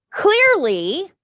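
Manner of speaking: ordinary delivery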